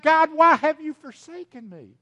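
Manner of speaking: high, loud anguished cry; preacher voicing Jesus's desperate loud cry. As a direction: cry out in despair to God. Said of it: "and he cried out".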